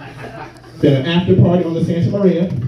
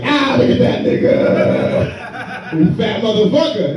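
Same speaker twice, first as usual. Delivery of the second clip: mock heckler; 3 semitones higher, slower than usual. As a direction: taunt the fat Kanye.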